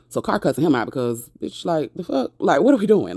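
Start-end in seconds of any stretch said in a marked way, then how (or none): 1.4-3.1 mock outrage. Voicing Carr cussing him out.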